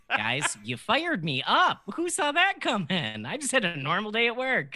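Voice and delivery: wound up and shaky; fired up. Real, not acted. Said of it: "I feel insane now".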